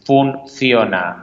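slow, drawn-out sepulchral voice; voice from beyond the grave. Shown as a demonstration. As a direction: stretch it out like a ghost speaking from the tomb. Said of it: "Aquí os hablo yo con esta voz de ultratumba".

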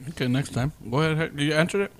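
talking while eating an orange; words round a bite of orange; mouth full. Real, not acted. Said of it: "I'm eating orange".

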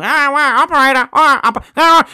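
high sing-song operator calling out; old telephone operator. Retold or imitated. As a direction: chirp it like a switchboard girl pulling plugs. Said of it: "I'm like the old operator that used to pull the things out".

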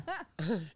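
sputtering laugh through a mouthful; spraying a drink mid-laugh; spit take. Real, not acted. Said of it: "That's my first damn spit take".

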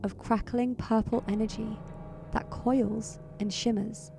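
measured, atmospheric narration; suspenseful storyteller delivery; game master's scene setting. A narrator's reading. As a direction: narrate a foreboding dream with deliberate pauses. Game master sets a dream scene.

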